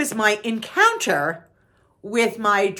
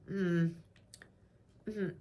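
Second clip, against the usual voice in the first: imitated hum; 3 semitones lower, 12 dB quieter than usual. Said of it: "She goes like this".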